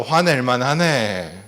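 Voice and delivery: gentle affirming "화낼만 하네"; empathetic phrase demo. Shown as a demonstration. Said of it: "잘했어". (부드럽게 인정하는 "화낼만 하네")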